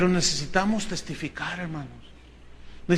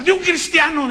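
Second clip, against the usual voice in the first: louder, higher indignant retort; angry girl; 9 semitones higher, 5 dB louder than usual. Retold or imitated. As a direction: snap it back high and loud, offended. Angry girl denouncing boyfriend. (respuesta indignada, más aguda y fuerte)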